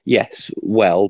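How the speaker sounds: hoarse, croaky throat. Real, not acted. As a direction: talk through a croaky, sore voice. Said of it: "but a very croaky voice".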